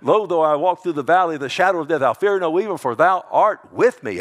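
loud, high, quick scripture proclamation; fervent declaration. Pretend. Preacher reciting the psalm as his deathbed cry, fervent. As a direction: belt out the psalm with rousing conviction.

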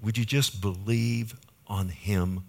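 soft, gentle invitation as Jesus; tender. Acted. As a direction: quietly plead with the crowd to believe. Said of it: "Jesus is so tender with them".

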